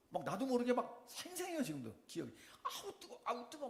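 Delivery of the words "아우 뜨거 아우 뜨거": breathy high yelp of pain, half-laughing; reliving the burn with a light laugh; mock cries of burning. Pastor reliving the burning heat for the congregation, mock pained yelp. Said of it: "막 이렇게 소리를 지르기 시작하면서".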